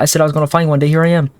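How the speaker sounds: high, eerie female character voice; sing-song creepy woman calling; woman's voice. Acted. Julie continues.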